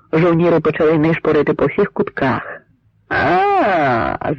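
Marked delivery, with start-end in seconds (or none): 3.1-4.3 long "A!" yell falling from high; drawn-out cry, swooping down in pitch; narrator's contained yell. A narrator's reading. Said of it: "закричав найдужчий".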